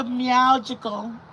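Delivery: "meowgical", with meow in place of the first part of magical; punning pronunciation. Shown as a demonstration. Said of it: "M E O W".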